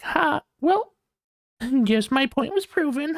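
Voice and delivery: high, smug mock voice; high taunting put-on voice; smug mock gloat. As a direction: gloat like you just won. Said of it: "They're like".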